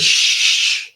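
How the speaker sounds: whispered shush. Retold or imitated. Interpreter hushing before asking, whispered shush. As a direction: hush the room.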